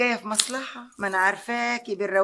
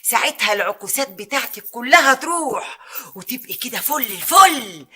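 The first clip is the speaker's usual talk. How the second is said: triumphant promise; 7 dB louder than usual. Acted. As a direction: swell up to a grand finish. Promising magic results, building up.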